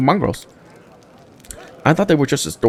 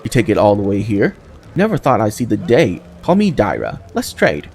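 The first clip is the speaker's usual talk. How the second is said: brash cave trader; 2 semitones higher than usual. Acted. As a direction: call out to the newcomer like an eager hawker. GM voices Dyra the trader.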